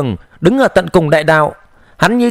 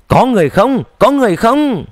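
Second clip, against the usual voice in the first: trembling voice; 3 semitones higher than usual. A narrator's reading. Giang Nam searches the ruins for survivors, mildly trembling voice. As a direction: call into emptiness with mild distress. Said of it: "Giang Nam run giọng hỏi".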